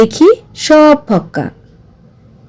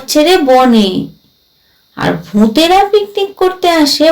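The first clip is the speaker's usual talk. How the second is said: lightly voiced ghost, scornful; 3 semitones higher than usual. Ghost chides the ignorant exorcist, lightly voiced and scornful.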